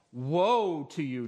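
"Woe" drawn out and hit hard, then falling; slow, weighty stress on "Woe"; punctuated beat. Shown as a demonstration. Preacher shows the beat of the passage, "Woe" slowly punched. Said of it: "the punctuation that moves this passage".

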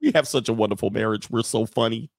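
understated fake marital contentment; mock dead inside. Couple posing for the camera, dead inside. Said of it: "Yeah, they dead inside".

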